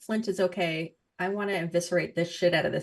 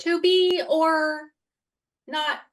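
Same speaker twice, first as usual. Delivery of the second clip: dramatic Shakespeare; 7 semitones higher, 6 dB louder than usual. Pretend. Dramatic Shakespeare line quoted.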